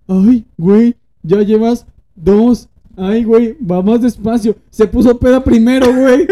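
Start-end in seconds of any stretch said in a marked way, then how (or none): 0.1-4.6 imitating the friend. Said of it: "la china decía".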